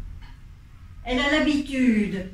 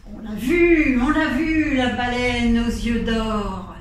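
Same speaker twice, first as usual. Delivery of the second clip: loud excited calling out; shouting sailors; 6 dB louder than usual. Acted. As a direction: shout the news across the inn. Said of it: "on les entend crier".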